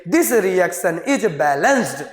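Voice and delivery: slow dictation. Shown as a demonstration. Teacher dictating slow conclusion.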